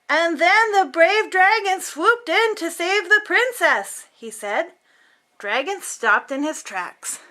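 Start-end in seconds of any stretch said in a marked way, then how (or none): 0.1-4.1 a hint of booming storyteller; booming reading voice. Boy reading loudly so the dragon hears, mild boom. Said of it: "read aloud in a booming voice".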